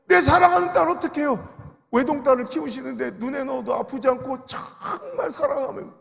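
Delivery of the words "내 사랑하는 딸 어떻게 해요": 내 hit hard, higher and louder still; an elder's rising wail over 내 딸; anguished cry. Retold or imitated. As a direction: break out over 내 사랑하는 딸. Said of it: "그분이 뭐라는지 알아요".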